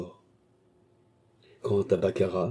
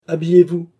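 sharp order, much louder and higher; stern command; 9 semitones higher, 9 dB louder than usual. A narrator's reading. Commissioner ordering the arrested clerk to dress, sternly loud. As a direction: bark it out with no room to argue. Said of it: "dit sévèrement le commissaire".

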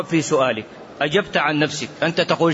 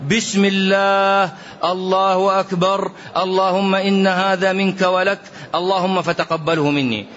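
بسم الله and الله أكبر drawn out slowly and deliberately; demonstrating the sacrifice formula slowly; slow ritual recitation. Shown as a demonstration. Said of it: "هكذا صنع رسول الله".

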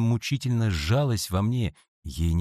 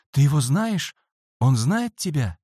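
anxious questions; 6 semitones higher, 4 dB louder than usual. A narrator's reading. Frightened boy questions friend.

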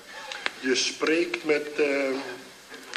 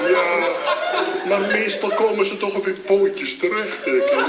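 louder, higher, laughing through the words; 5 semitones higher, 5 dB louder than usual. Acted. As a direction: giggle it out, sheepish and amused. Jokes about the fallen cat.

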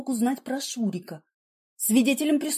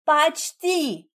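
a short, higher retort, snapped off; snapping back; 6 semitones higher than usual. A narrator's reading. Wife snaps back at her prying husband. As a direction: bite the word off at him. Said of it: "огрызнулась я".

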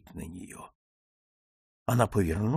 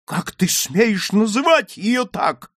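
slow, high, ringing outrage; loud indignant cry; loud, distinct exclamation; 10 semitones higher, 7 dB louder, slower than usual. Acted. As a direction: challenge an insult, every word distinct. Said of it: "воскликнул Дик громко и отчётливо".

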